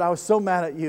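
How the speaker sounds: man confessing his anger; retold anger. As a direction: lean hard on so mad. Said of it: "He said".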